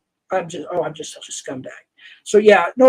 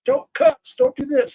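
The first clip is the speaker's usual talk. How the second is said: much higher, mocking a prim scold; mock preachy scold. Admitting his old hypocrisy to chat, mock preachy scold. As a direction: parody his own preachy self. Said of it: "I was being a hypocrite".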